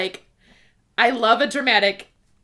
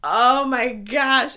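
gushing; 2 semitones higher, 5 dB louder, much slower than usual. Real, not acted. Gushing over the scene.

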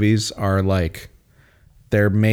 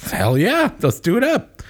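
high, excited cheer; excited whoop; 12 semitones higher than usual. Retold or imitated. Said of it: "they're like".

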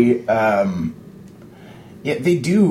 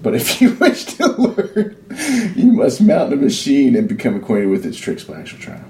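laughing while reading. Acted. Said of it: "let's read that again".

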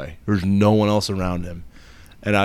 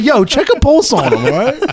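mock alarmed retold self; 11 semitones higher, 4 dB louder than usual. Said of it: "I'm like".

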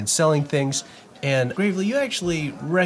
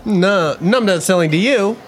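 refusing angrily; 6 semitones higher, 6 dB louder than usual. Acted.

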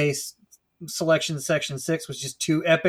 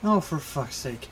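exasperated; 3 semitones lower, 7 dB quieter than usual. Acted. Exasperated coach.

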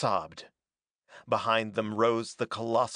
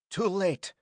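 crying out; 7 semitones higher than usual. A narrator's reading. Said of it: "Sarja cried".

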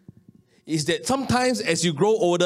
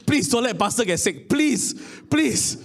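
retold desperate prayer; 4 semitones higher, slower than usual. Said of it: "eh, I said".

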